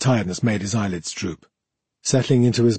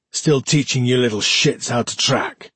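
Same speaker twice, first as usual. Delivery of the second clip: put-on lightly slurred drunk question. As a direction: slur it a little, tipsy. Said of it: "Mackerel slurred".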